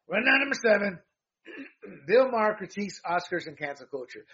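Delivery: high, loud headline call; punchy rundown intro; segment announcer. Real, not acted. Announcing the next news segment.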